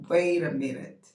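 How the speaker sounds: loud, startled outburst. Retold or imitated. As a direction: stop short in disbelief. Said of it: "I said".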